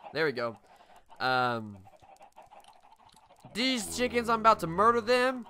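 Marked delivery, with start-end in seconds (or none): 3.5-5.5 mock menace. Mock threat at chickens.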